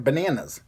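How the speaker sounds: "bananas" with a New England short A, as in "cat"; local "bananas" pronunciation. Shown as a demonstration. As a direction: stretch the middle of "bananas" as ba-NAN-as. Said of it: "because I said bananas".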